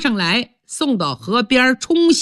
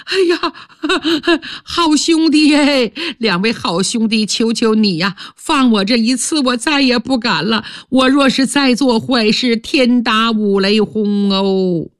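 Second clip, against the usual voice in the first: groveling plea; 2 semitones higher than usual. Acted. Stepmother begs the two men.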